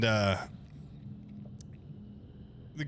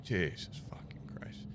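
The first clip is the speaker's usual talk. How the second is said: whispered curse, much softer; stunned whisper; 4 semitones lower, 10 dB quieter than usual. Retold or imitated. Hearing the three-hundred-dollar fee, whispered curse. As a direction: breathe it out in disbelief.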